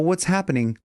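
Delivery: ordinary talk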